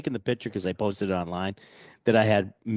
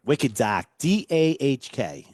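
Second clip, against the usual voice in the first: Wicked Dahk, no r in Dark; Boston accent; 4 semitones higher, 3 dB louder, slower than usual. Shown as a demonstration. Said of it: "as it sounds in a Boston accent".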